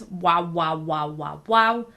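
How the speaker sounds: wow with mouth pulled in, hollow chamber sound. Shown as a demonstration. Teacher showing the mouth chamber wow. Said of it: "move your mouth in so that it creates a chamber noise".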